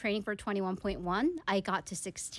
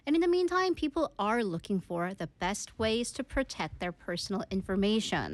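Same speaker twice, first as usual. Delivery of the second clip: measured, slow newsreader delivery; news read; slower than usual. Acted. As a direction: read it as a radio news bulletin, slow and clear. Reads the news story in English.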